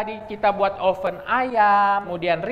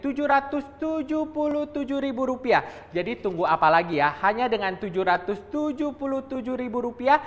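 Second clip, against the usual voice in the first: infomercial; 4 semitones higher than usual. Acted. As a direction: push the deal like a TV host. Hard-sell TV shopping pitch.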